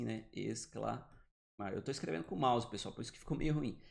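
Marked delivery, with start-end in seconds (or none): 0.3-1.7 "exclamar" split slowly as "es-cla... mar"; syllable by syllable. Shown as a demonstration. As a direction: spell out the sound of "exclamar", softer. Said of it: "poderia escrever assim". ("exclamar" devagar, separando as sílabas)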